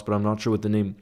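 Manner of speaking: normal talking voice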